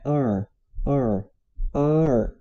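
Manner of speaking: "ar" as open "ah" gliding into English R; open A plus R. Shown as a demonstration. Teacher blending both sounds for learners, open-A "ar". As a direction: join the two sounds into one "ar". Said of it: "A com acento aberto".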